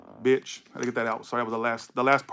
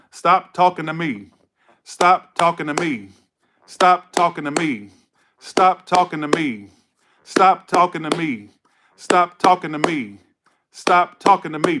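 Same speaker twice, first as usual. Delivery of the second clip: loud, slow, repeated command; emphatic rebuff; 3 semitones higher, 5 dB louder, slower than usual. Real, not acted. Reader cutting off the querent, emphatic rebuff. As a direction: punch "stop" and "talking", falling away on "me".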